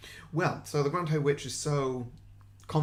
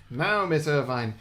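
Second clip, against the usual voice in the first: slow, nasal witch voice; 2 semitones higher, 7 dB louder, slower than usual. Acted. To the trapped teacher, slow nasal witch voice. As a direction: drag it out like a sneering witch. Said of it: "witches are nasally".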